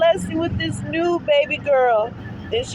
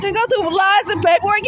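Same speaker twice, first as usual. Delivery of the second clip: crying. Real, not acted. Crying about her baby.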